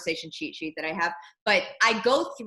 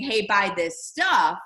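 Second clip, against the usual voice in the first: slow pushy pitch; 4 dB louder, slower than usual. Retold or imitated. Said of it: "that's not you saying".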